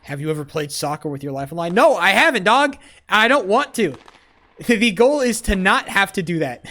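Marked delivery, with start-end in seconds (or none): 1.7-3.9 incredulous shout. Real, not acted. Refuses to risk his life.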